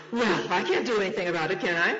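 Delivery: loud, lively exasperation with swooping pitch; exasperated father. Acted. Father to his pestering little boy, exasperated. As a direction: give in with a loud, helpless question.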